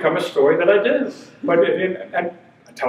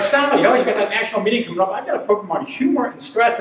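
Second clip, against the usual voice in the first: eager sales pitch; 3 semitones higher than usual. Retold or imitated. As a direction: rush the pitch keenly.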